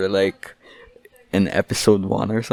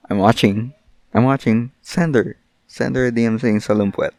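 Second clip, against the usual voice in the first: bossy command; 4 dB louder than usual. Real, not acted. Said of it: "commanding listeners".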